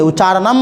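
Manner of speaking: उच्चारणम ending cleanly on म, no trailing mah; final m clipped. Shown as a demonstration. Teacher correcting students: उच्चारणम ends on म, no extra ह. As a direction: stop dead on the final म of उच्चारणम. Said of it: "म पर आके stop करना है".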